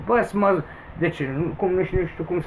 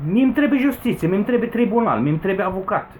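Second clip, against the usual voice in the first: indignant demand; 4 semitones higher than usual. Real, not acted. Angry rant demanding justice.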